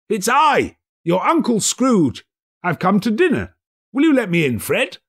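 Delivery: put-on high, bright-eyed old Scrooge; eager old miser, newly kind. A narrator's reading. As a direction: play Scrooge cheerfully asking. Scrooge voiced in the story.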